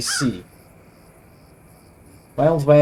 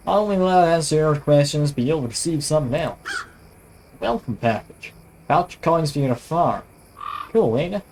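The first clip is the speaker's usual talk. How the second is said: lightly imitated American sheriff; attempted American accent. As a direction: try a mild cowboy American accent. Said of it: "I can't really do an American accent".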